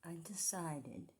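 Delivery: hushed whisper. Real, not acted. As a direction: whisper so they can't hear. Whispering near the door.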